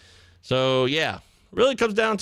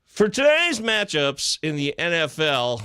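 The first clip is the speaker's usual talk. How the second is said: announcer intro; slower than usual. Pretend. Mock intro to game picks.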